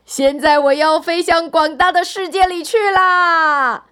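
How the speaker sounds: high, loud, gleeful little pea; happy shout. A narrator's reading. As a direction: call out joyfully as you take off. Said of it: "高兴地喊道". (高兴地高声喊道)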